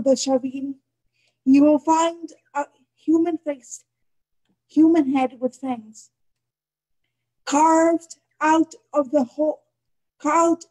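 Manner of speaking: measured poem recital with long pauses; poetry reading. Acted. Poet reads her poem to an online audience, solemn poetry reading. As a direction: read it deliberately, phrase by phrase.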